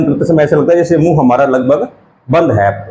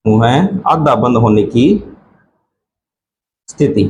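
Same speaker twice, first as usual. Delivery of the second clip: slow dictation; 4 semitones lower than usual. Shown as a demonstration. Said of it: "अर्धसंवृत अर्थात क्या होगा".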